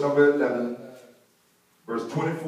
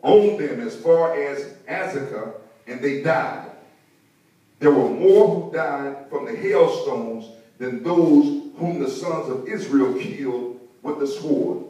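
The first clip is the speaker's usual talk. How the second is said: emphatic, drawn-out Bible reading; scripture reading; 3 dB louder than usual. Real, not acted. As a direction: read the verse out weightily to the congregation. Reads scripture aloud to congregation.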